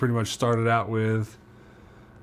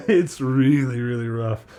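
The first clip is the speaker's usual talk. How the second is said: laughing; 2 semitones higher, 5 dB louder, slower than usual. Real, not acted. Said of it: "laughing repeat".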